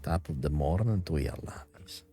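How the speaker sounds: put-on soft lilting Irish leprechaun accent; Irish greeting in leprechaun accent. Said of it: "talk like a leprechaun".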